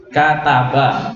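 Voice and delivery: "Kata ba" slowly, every syllable separate; each letter clear. Shown as a demonstration. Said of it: "masing-masing huruf dibaca jelas". ("Kata ba" pelan, tiap huruf jelas)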